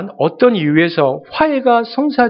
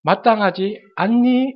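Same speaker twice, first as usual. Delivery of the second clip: slow, sighing 마땅하지 않니 with a drawn-out 않니; long sigh; 2 semitones higher, slower than usual. Retold or imitated. Father sighs at the angry elder son, slow and sorrowful. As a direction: stretch 않니 out like a heavy sigh. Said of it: "아버지가 긴 탄식을 하면서".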